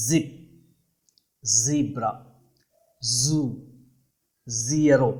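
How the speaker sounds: "జిప్, జీబ్రా, జూ, జీరో" with a voiced Z buzz. Shown as a demonstration. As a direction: demonstrate Z, not J, in each word. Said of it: "buzzing సౌండ్లా పలకాలండి".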